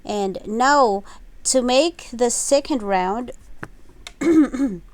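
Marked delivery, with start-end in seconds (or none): 3.4-3.8 throat clearing. Real, not acted. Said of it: "sorry, my throat is itching".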